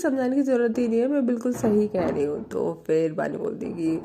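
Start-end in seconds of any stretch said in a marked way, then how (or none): 0.0-2.4 higher and fast, a touch of defiance; retold insistent retort. Prachi insisting to her friend, quick raised retort. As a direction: snap back that no explaining is needed, fast and raised.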